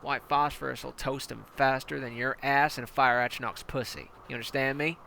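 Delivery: hard-nosed commander barking orders at a recruit; menacing armored battalion commander; tank commander. Acted. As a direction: lean in like a brutal drill sergeant. Commander explains white phosphorus.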